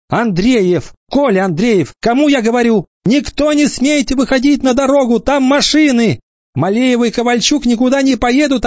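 put-on young teacher keeping order among kids. Teacher herds first graders. (высокий, громкий голос молодой учительницы)

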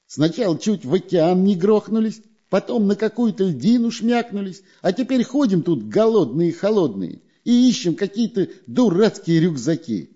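high whining moan. A narrator's reading. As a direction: whine high, sorry for yourself. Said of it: "хныкал Дырка".

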